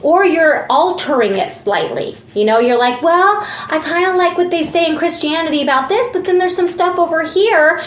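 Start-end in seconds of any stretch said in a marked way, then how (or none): 3.0-7.8 questioning believer voice. Retold or imitated. Voicing a confused believer.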